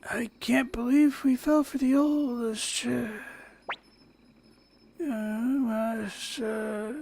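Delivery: drowsy slow whisper; slurred whisper, drifting off; sedated. Acted. Drugged tea, falling asleep.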